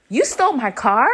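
incredulous rising accusation; storming accusation. Retold or imitated. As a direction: throw it as an accusing question. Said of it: "I storm up to".

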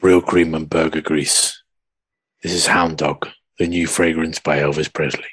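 low, breathy perfume advert voice; sultry perfume ad. Pretend. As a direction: purr it like a fragrance commercial. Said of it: "I can even do the advert for it".

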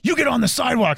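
retold mean homeowner. Homeowner orders canvasser off his grass, mock angry. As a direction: imitate an angry man telling you off. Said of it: "very mean to me".

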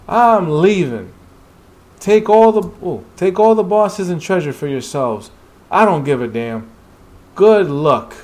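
fed up, raising the voice to storm off; angry outburst. Acted. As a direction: snap it out and walk away. Angry hunter quits the raid.

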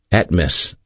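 "Atmis" said slowly as AT-mis, stress on the first syllable; Greek word said carefully. Shown as a demonstration. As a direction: spell out "Atmis" clearly, AT-mis. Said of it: "The word vapor in the Koine Greek is atmis".

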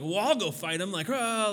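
mock excited. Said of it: "he's all excited".

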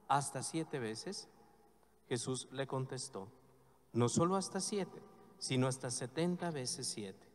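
measured, solemn reading of the Gospel; liturgical Gospel reading. Acted. Priest reading the Gospel aloud at Mass, solemn and measured.

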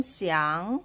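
想 drawn out with a rising tone; second tone. Shown as a demonstration. Teacher demonstrating the changed tone to learners, 想 rising. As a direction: slide 想 upward. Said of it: "second tone".

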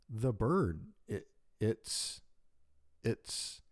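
halting, breathless stammer; stammering in shock. Acted. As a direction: struggle to get the words out. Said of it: "I tried to get it out".

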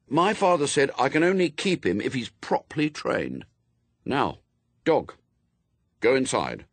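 lightly voiced boy laying down rules; young Adam, firm.

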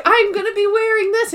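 mock defiant Angela.

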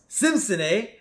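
put-on high, musing old-man boss; lightly voiced creaky tycoon. Burns voiced again.

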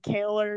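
"color" said as "kaler"; grandma's "color". Retold or imitated. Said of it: "my grandma's really bad too".

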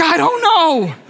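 high, comic helpless wail; mock exasperation. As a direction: act out a flustered protest. Retold frantic answer to wife.

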